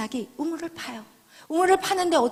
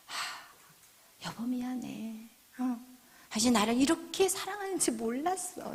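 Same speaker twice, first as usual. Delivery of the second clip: soft sighing start, gently slow; playful tender apology; 3 semitones lower, 7 dB quieter, slower than usual. Acted. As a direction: melt the quarrel with a quiet apology. Calm spouse apologizes with humor. (부드럽고 다정하게 사과하듯)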